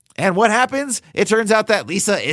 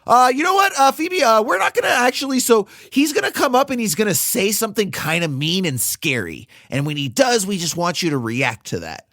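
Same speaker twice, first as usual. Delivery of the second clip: higher, pushier bickering voices; acted crew argument; 5 semitones higher than usual. Writer and director passing the buck, bickering. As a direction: squabble like nervous filmmakers.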